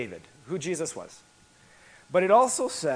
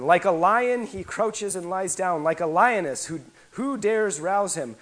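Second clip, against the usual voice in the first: raised, ringing reading of Jacob's blessing; scripture reading; 2 semitones higher, 3 dB louder than usual. Acted. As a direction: proclaim the old blessing over Judah. Reads Jacob's blessing aloud.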